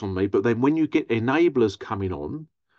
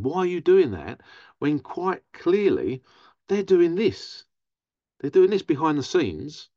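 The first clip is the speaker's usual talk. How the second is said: exasperated retort; 5 semitones higher than usual. Retold or imitated. Her own retort to supporters.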